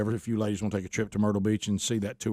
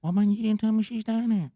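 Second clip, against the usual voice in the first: heated retold exchange; 10 semitones higher than usual. Host retelling Gary's excuse, raised high. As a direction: pitch it way up, pleading. Voicing Gary and himself arguing.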